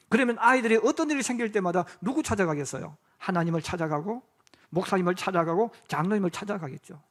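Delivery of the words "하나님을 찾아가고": ordinary talk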